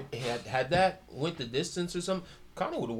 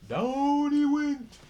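slow dramatic drop; 10 semitones higher, 4 dB louder, much slower than usual. Real, not acted. Describing the knockdown.

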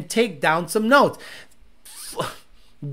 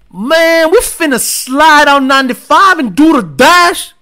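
put-on hyped-up louder Black street accent, pitched higher; black guy accent; 4 semitones higher, 8 dB louder than usual. Car-guy streamer voicing a Dodge owner in his Black guy accent. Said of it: "That's my black guy accent".

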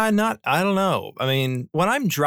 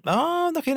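goose honk. Pretend. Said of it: "now we're circling back again".

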